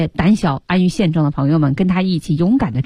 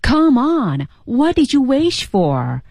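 Alex's line; 6 semitones higher, slower than usual. Retold or imitated. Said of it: "狮子Alex就说".

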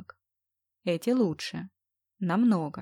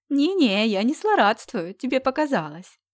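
teasing; 4 semitones higher, 5 dB louder than usual. Acted. Teasing friend on the phone.

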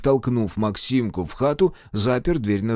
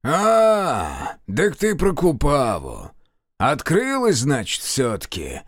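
annoyed grunt; 5 semitones higher, slower than usual. Acted. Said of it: "с досадой крякнул Киловяз".

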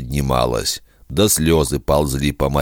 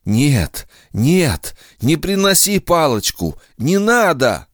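whisper; 11 semitones higher than usual. Acted. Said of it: "Раздался шёпот".

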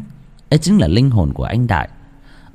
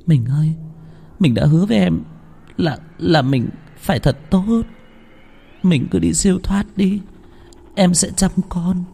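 tearful wife; 9 semitones higher than usual. A narrator's reading. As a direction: let him go while weeping. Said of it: "bật khóc lên từng thành tiếng". (vợ vừa khóc vừa tiễn chồng đi)

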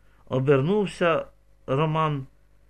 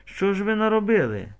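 sobbing; 7 semitones higher, 3 dB louder than usual. A narrator's reading. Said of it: "ридає".

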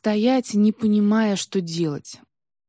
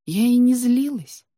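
plain reading voice

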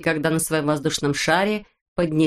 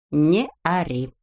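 slow, calm and steady; 2 semitones lower, slower than usual. A narrator's reading. Znaika calms shouting Neznaika, slow and calm. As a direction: settle him down unhurried. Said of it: "спокойно ответил Знайка".

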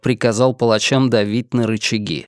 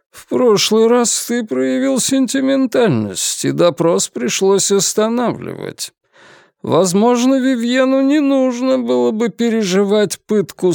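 stern inquisitor; 8 semitones higher than usual. Acted. Деборд отчитывает Ренара, давит.

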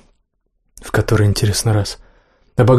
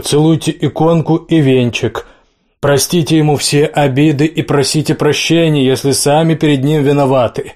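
priest voice; 4 semitones higher than usual. Acted. Priest addressing mourners at coffin.

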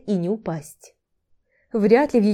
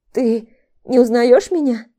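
hoarse rattling voice; 3 semitones higher, 6 dB louder than usual. A narrator's reading. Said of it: "собственный дребезжащий сиплый голос".

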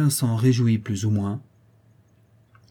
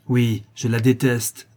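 defiant; 4 dB louder, slower than usual. Acted. Boy insists on his hatred.

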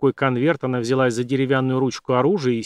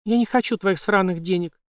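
angry refusal; 6 semitones higher than usual. A narrator's reading. Jane angrily refuses.

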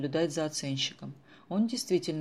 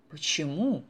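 a touch of fright; 4 dB louder, slower than usual. Acted. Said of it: "испугалась Муся".

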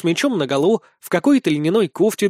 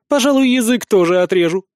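snapping back; 5 semitones higher, 4 dB louder than usual. A narrator's reading. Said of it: "огрызнулась".

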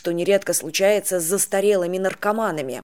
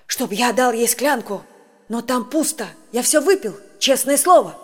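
slurred frightened babbling; 3 semitones higher than usual. Acted. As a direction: panicky mumble rising to a cry. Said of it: "лепетал бедняга заплетающимся языком, в ужасе".

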